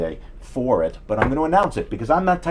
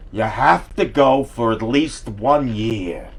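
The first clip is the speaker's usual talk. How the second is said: slow, slurred parent voice; parent after a stroke; 4 dB louder, much slower than usual. Retold or imitated. Mocking parents insisting on Hebrew school, slow slurred voice. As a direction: drag the words like a drooping mouth. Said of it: "the way I'm doing it".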